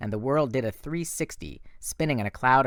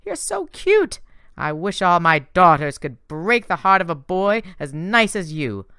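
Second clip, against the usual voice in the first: higher, sweetly teasing goddess voice; Aphrodite, sly and gushing; 6 semitones higher, 7 dB louder than usual. A narrator's reading. Goddess teasing Percy about her secret help, higher and sweet. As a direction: purr it like a doting goddess. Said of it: "Aphrodite's eyes were tearing up".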